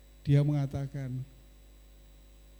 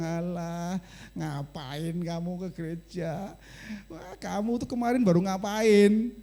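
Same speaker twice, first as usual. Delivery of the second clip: a sneering devil, slow and jeering, then rising; mocking devil; 4 semitones higher, slower than usual. The devil taunting a churchgoer, sneering. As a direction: taunt them like the devil whispering doubt.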